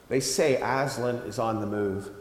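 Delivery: hushed secret whisper; low whisper. Acted. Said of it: "it added in a low whisper".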